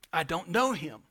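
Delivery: Peter's first denial, fairly low-key; restrained denial. Retold or imitated. Preacher voices Peter denying Jesus, restrained. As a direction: deny it briefly without raising the voice much.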